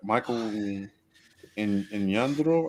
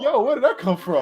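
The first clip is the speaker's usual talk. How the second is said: surprised; 5 dB louder than usual. Retold or imitated. Retold own shock at accent.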